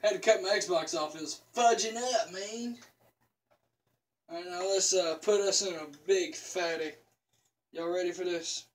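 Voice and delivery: lip packed with dip; chewing tobacco. Real, not acted. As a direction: talk around a lip of dip. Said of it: "pack a lip".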